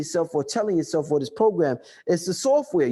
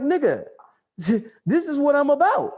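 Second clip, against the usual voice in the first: lightly voiced brain protesting; brain talking; 5 semitones higher than usual. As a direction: play the brain refusing to let go, a bit raised. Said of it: "your brain is like".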